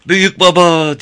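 put-on very high, loud child's yell; screaming child. A narrator's reading. Little George screaming for his grandfather at full voice. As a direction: yell at the top of the lungs. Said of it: "diye bağırdı George avazı çıktığı kadar".

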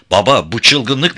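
slow, high, loud appeal; protesting shout. A narrator's reading. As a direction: cry out in protest, stretching the words. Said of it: "diye bağırdı Gaya yaklaşınca".

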